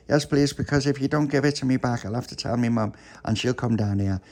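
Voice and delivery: lightly voiced earnest little one; pleading child. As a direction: plead high, easing down as it goes. Little pappy pleads and warns.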